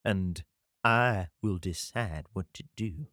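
slow Southern drawl; Southern God. Acted. God laying down the law to David, slow Southern accent. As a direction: draw it out in a lightly put-on Southern accent. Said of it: "I don't know why God's Southern".

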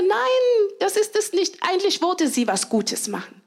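bright high emphatic "Nein"; spring up on the "Nein". Retold or imitated. Voicing charitable inner thought. (hohes, nachdrückliches „Nein“)

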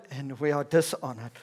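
dry, matter-of-fact drop; sarcastic. Acted. Paul setting himself below his readers, dryly sarcastic. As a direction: let "dishonored" fall back to an ordinary level. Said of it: "can be quite sarcastic with the people".

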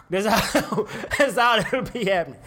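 high, laughing threat to the imagined son; giggling fake menace; laughing mock threat. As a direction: laugh through the warning.

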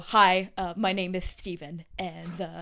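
lightly voiced lisping makeup artist; lisping character. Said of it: "You mastered the lisp".

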